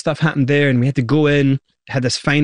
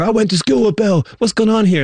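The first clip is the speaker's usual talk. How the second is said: excited forum gossip; 8 semitones higher than usual. Retold or imitated. Forum posters quoted, excited gossip.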